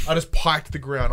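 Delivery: ordinary talk, nothing marked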